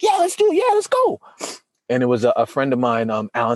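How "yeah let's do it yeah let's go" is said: high, excited yeah let's go; eager agreement. Retold or imitated. Agreeing to a friend's project, high and excited. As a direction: leap in before he explains.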